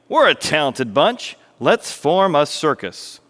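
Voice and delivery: lightly voiced boy rallying his friends; mildly excited story-character pitch; eager young organizer. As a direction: pitch an idea to your pals, a touch excited. Milo rallies his friends in story.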